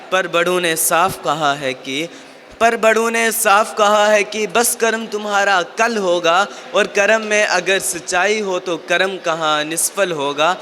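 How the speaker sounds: measured, rhythmic verse with refrains falling in pitch; poem recitation. Acted. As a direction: recite it as stage poetry, line by line. Recites a motivational poem to audience. (कविता पाठ के अंदाज़ में)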